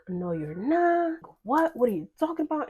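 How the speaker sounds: imitating a disbelieving mother, pitched high; retold stunned protest, climbing sharply; shocked disbelief. Mother disbelieves the pregnancy news.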